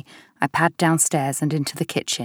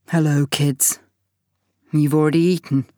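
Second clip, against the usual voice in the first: surprised. Acted. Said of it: "I hear the surprise in his voice".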